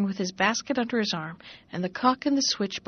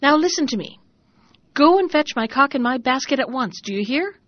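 stern command; 4 semitones higher, 5 dB louder than usual. Acted. Struck his hand on the table.

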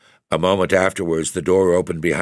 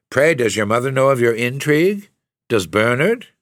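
1 scornful; 6 semitones higher, 3 dB louder than usual. A narrator's reading. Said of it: "cried Rosalind".

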